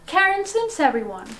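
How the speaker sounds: high, announcing guest name; guest introduction. Pretend. Host welcomes the first guest on the channel, announcing.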